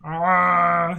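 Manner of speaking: a bad retro game zombie groan. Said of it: "really bad old school Resident Evil P S one zombie noise".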